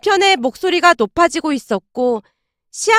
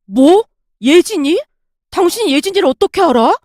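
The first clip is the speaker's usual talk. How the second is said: startled; 4 semitones higher, 4 dB louder than usual. Acted. Husband startled by ex's name.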